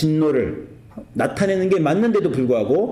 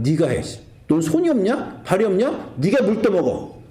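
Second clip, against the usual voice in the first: mock stern dad; 4 semitones higher than usual. Father scolding eldest daughter.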